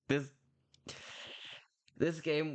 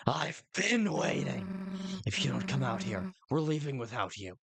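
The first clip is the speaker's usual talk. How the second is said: pushy friend; 3 semitones higher than usual. Acted. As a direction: threaten to leave, half joking.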